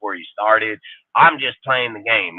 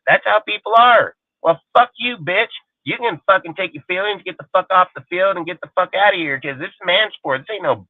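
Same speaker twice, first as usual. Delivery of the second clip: high, pushed rant with rising heat; 6 semitones higher than usual. Real, not acted. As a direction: let the anger run away with you. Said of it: "I get into ranting".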